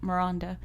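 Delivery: "Miranda" softly, with a broad ah; soft mi-RAHN-da for "Miranda"; mom's English Miranda. Retold or imitated. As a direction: imitate English mom saying "Miranda". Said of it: "says my name".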